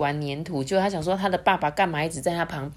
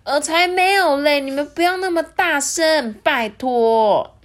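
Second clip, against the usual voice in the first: high louder protest; embarrassed princess; 9 semitones higher, 6 dB louder than usual. Acted. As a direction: hush the loud parents. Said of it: "艾莉诺就说".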